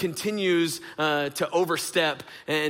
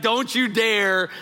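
slow, higher parental warning; stern warning; 5 semitones higher, 4 dB louder, slower than usual. Retold or imitated. Dad warns daughter not to retaliate, stern. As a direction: draw out the threat to a kid. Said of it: "I look at her and I go".

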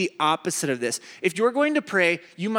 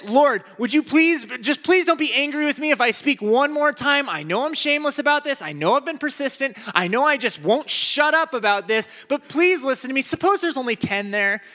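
high, pleading Lord, would you please; begging Abraham; 6 semitones higher than usual. Retold or imitated. Abraham begs God one more time for the city, high pleading. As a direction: beg like a child tugging a sleeve.

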